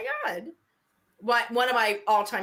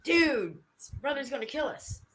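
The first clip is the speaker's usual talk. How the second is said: lightly voiced stoner surfer; a hint of stoner dude; mild surfer-dude panic; Spicoli; 4 semitones higher than usual.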